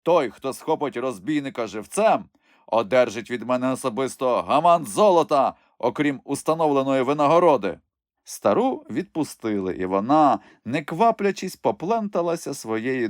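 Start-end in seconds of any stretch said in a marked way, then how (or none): 0.0-7.8 lightly voiced bishop giving orders; rally the soldiers with greed; commanding bishop. (легко озвучений владний єпископ)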